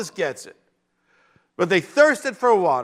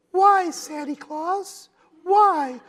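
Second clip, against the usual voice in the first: whiny complainer; 12 semitones higher, much slower than usual. Retold or imitated. Mocking whining Israelites.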